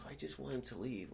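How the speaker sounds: high-pitched mock tearful plea; imitated crying. Woman pleading to police to remove him, imitated crying. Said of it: "And then she's crying".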